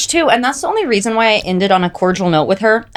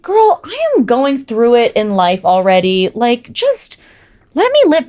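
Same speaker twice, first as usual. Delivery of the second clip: exasperated plea; 3 semitones higher than usual. Retold or imitated. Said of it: "I was like".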